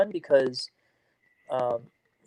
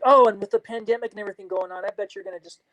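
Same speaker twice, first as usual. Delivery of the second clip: imitating eager encouragement, higher; mock pep talk, upbeat and pushing; motivated; 6 semitones higher than usual. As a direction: talk her into chasing dreams. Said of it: "very motivatedly".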